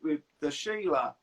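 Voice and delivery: hammed-up Aussie pub talk; put-on Australian accent. Shown as a demonstration. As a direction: do a stereotypical Australian. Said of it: "Australians is probably the easiest to do".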